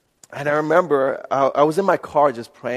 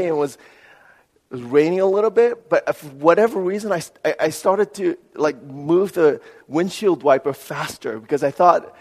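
ordinary talk

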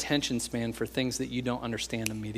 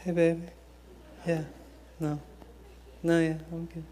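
sweet phone voice; 4 semitones higher, 5 dB quieter than usual. Retold or imitated. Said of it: "your voice changes when you're on the phone".

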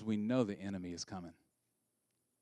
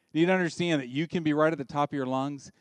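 raised voice; 3 semitones higher, 6 dB louder than usual. Shown as a demonstration. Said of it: "you're never right at the top of your lungs".

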